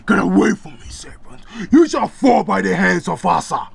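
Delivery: put-on dreaming boy yells at a serpent, loud; screaming in sleep. A narrator's reading. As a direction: shout at a serpent in a nightmare. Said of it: "He's screaming in his sleep".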